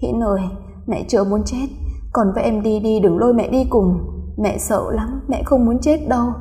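a touch of tearful begging; tearful pleading. Acted. Mother begging her dead son to leave, mild tearful pleading. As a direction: plead with the ghost child, mildly weepy. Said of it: "khóc lóc nói vọng ra".

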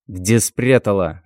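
very slow, menacing demand; menacing growl. Acted. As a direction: lean in and threaten her. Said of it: "рычит на неё дядя".

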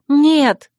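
loud, high objection; sharp protest. A narrator's reading. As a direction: leap in to contradict. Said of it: "вскинулась я".

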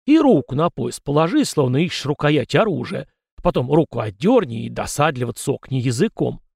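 put-on a fussy old spirit lecturing; old ghost voice. Ghost Kozyrev's voice. (ворчливый старый призрак)

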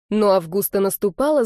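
ordinary delivery, nothing marked

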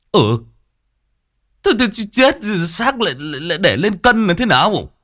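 a hint of an old man mishearing; confused deaf old man. Old Cẩm mishears again, lightly voiced old man. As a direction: puzzle over the wrong word.

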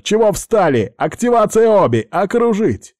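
high, loud barked orders; barking gym coach. A narrator's reading. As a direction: bark commands at the fighters. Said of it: "закричал тренер".

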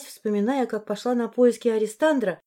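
ordinary talk, nothing marked

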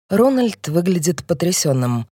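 ordinary delivery, nothing marked

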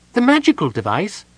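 high kender voice, uneasy and squirmy; a nervous little kender guessing at the curse; high, uneasy kender worrying aloud; kender Tasselhoff. A narrator's reading.

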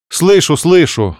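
slow irritated grumble; grumbling. Acted. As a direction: grumble it out, annoyed. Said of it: "проворчала я". (ворчливо)

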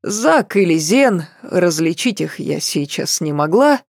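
plain reading voice

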